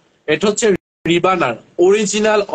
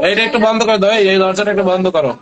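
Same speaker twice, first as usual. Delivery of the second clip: raised voice calling across the room to shut the door; 4 semitones higher, 4 dB louder than usual. Real, not acted. Host tells the helper to close the door, raised call. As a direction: call it out loud to someone off-mic.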